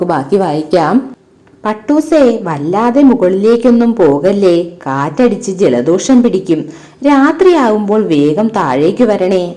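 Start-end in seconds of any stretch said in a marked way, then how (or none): 1.6-9.5 put-on lively storybook narration for children; ഉത്സാഹത്തോടെ കഥ വായിക്കുന്നു; story reading. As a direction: read the kite tale expressively to pupils.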